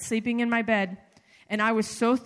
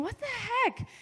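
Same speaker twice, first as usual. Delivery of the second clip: exasperated what the heck; 12 semitones higher, 5 dB quieter than usual. Retold or imitated. Retold annoyed inner thought.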